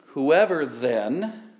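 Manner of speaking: "Whoever then," spoken very slowly with a rising lift; "Whoever then" drawn out slow as a weighty conclusion; drawn-out quote. Shown as a demonstration. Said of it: "he's drawing a conclusion".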